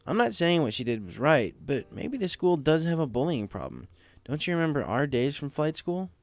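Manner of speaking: a friendly manager asking what's wrong; Cloud Kicker voice. Acted.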